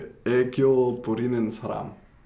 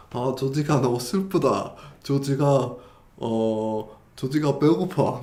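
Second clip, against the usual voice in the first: louder, quick whiny self-talk; cutesy third person; 3 semitones higher, 3 dB louder than usual. Shown as a demonstration. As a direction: whine like a cute kid about yourself. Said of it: "막 이렇게 말하면".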